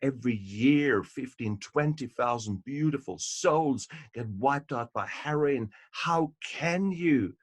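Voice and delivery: acting out a mother who is shocked and indignant; mom losing it. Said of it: "Mom loses it and says".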